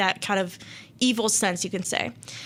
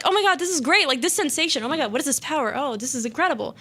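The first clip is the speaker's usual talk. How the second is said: very happy; 3 semitones higher, faster than usual. Retold or imitated. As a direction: marvel in mock elation. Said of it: "He was very happy".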